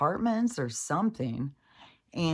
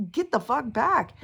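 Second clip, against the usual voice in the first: high, louder mock shout; hammed-up outburst; imitated angry yell; 10 semitones higher, 5 dB louder than usual. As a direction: push him off in a raised retold shout. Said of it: "this guy would be like".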